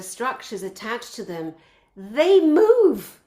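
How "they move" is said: high and loud, bursting with wonder; high loud cry of amazement; thrilled exclamation. Real, not acted. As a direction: let the awe explode out. Amazed by moving temple columns.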